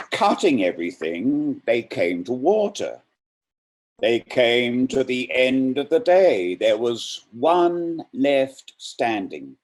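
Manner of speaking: dramatic poetry reading; poem reading. Acted. Reader performing Merwin's The Last One with weight. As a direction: read it with rising menace and weight.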